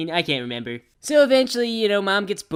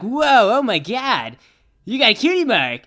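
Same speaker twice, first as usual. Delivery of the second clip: amazed gasp; 5 semitones higher, 3 dB louder than usual. Retold or imitated. Sees sister's new cutie mark.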